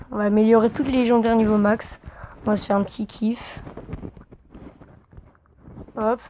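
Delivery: talking while chewing gum. Real, not acted. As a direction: gum in the mouth. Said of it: "j'ai un chewing-gum dans la bouche".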